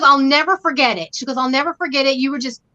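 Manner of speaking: normal talking voice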